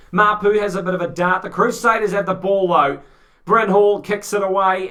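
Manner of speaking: lively sports commentator call; play-by-play commentary. Acted. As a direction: call the rugby action live. Live rugby play-by-play.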